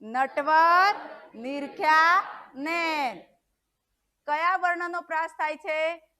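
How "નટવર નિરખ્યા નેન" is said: slow drill. Shown as a demonstration. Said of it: "બોલો".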